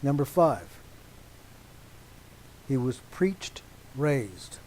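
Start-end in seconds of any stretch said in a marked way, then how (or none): 2.7-4.6 preached lifted with a rising tune; stress on preached. Shown as a demonstration. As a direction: point at preached. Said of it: "Emphasizing the word preached".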